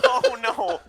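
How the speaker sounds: laughing. Real, not acted. Laughing at the dog's face.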